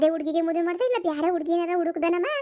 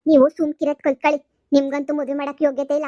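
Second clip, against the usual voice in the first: loud sharp retort; loud snapping command; shouting down; 6 dB louder than usual. Acted. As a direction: silence the husband at full volume. Wife shouts down husband.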